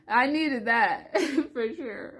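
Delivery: slow, high, laughing through emotion; dramatic, overcome and laughing; being extra. Real, not acted. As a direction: laugh tearfully as you admit it. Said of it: "I'm just being extra".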